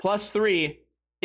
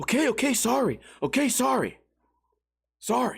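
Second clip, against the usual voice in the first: mock-frightened, scared-sounding put-on voice; 5 semitones higher than usual. Retelling how a man in a Walgreens backed down after a threat, imitating a scared apology. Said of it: "and he's like".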